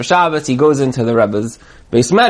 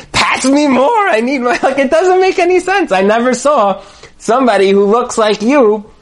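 high, stammering, incredulous rant; flustered protest; 7 semitones higher than usual. Retold or imitated. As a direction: sputter in disbelief, stumbling over the words. Flustered guest protests Rebbe's behaviour.

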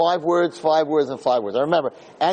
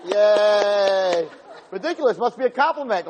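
put-on kids cheering; 4 semitones higher, slower than usual. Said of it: "we're all like".

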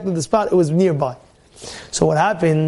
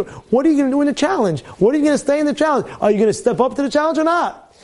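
challenging push; 6 semitones higher than usual. Retold or imitated. Rabbi challenging the guy.

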